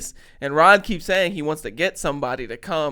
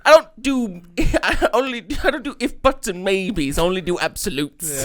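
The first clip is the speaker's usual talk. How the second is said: mock Liverpool accent, higher and laughing through it; laughing imitation; 4 semitones higher, 5 dB louder than usual. Quoting the fan to friends, laughing mock accent. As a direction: giggle while quoting the fan's line. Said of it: "He said".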